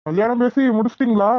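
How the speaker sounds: a light mocking repeat with பேசி leaned on; sarcastic echo. Officer echoing the farmer's wedding news, mildly sarcastic. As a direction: echo his words back with a hint of a sneer. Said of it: "இவன் கேக்குற பார்த்தா நக்கலா இருக்கு".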